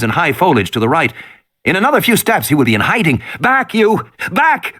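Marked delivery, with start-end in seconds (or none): 3.4-4.7 lion tamer shouting. Acted. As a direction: bark orders like a lion tamer. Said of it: "Regis shouted".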